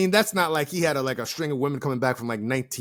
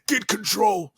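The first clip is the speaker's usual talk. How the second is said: put-on old person voice; 8 semitones higher, slower than usual. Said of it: "do my old person voice".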